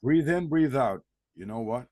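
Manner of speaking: breathe, then speak evenly and reasonably; calm and composed. Retold or imitated. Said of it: "just talk on a normal way".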